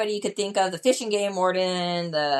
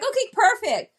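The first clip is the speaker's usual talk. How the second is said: doctor; 12 semitones higher, 4 dB louder than usual. Retold or imitated. Doctor voiced in story.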